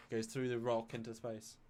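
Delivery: soft, hushed mock-echo commentary; imitated echo. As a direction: trail the joke away softly. Continues mock echo after yell.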